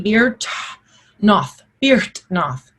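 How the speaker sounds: Beertnoth as beer with a T, BEERT-noth; Old English pronunciation. Shown as a demonstration. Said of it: "beer with an H and a T".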